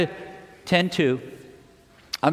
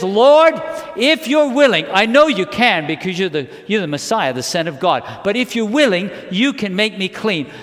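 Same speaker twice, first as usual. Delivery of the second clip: raised, pleading cry to the Lord; acted desperate appeal to God; crying out in prayer. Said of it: "I mean, he's crying out".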